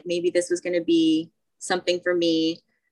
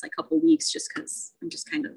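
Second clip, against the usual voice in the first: laughing; 10 semitones higher, 6 dB quieter than usual. Real, not acted. Joking about quitting keto.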